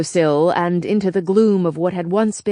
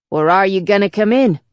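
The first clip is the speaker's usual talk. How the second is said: put-on Chicago accent. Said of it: "with an accent I hadn't heard in thirty years".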